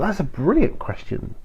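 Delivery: ordinary talk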